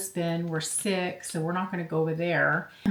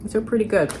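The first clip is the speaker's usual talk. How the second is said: chewing while talking; mouth full; 2 semitones higher, faster than usual. Real, not acted. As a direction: talk through a mouthful. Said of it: "Sorry as I talk with my mouth full".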